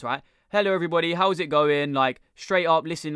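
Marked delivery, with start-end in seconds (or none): 0.5-1.9 nasal greeting, air out the nose. Shown as a demonstration. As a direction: push the greeting out through your nose. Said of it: "I'll show you the difference".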